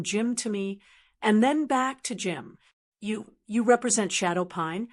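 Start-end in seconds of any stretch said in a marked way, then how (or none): 3.0-4.9 nervous stutter on the first word; stammering. Acted. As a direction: trip over the words, rattled. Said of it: "she stammered".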